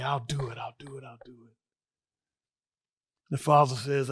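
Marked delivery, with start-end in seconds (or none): 0.0-1.6 fading resolve. Acted. Son repeats acceptance, fading.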